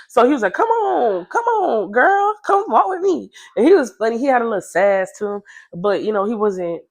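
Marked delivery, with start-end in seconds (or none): 0.5-3.3 high, sassy imitation of the boy; boy's voice. Boy voiced in retold story.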